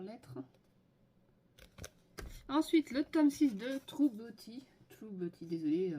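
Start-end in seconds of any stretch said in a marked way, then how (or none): 3.9-4.6 anglais avec un fort accent français; title in French-accented English; mauvais accent anglais. Real, not acted. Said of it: "mon accent anglais est pourri". 4.9-5.5 softer French-accented English; mauvais accent anglais. Real, not acted. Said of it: "mon accent anglais est pourri".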